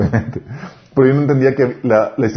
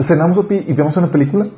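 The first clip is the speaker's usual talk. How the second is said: daughter coaxing dad; 4 semitones higher, faster than usual. Retold or imitated. Daughter begging for movie.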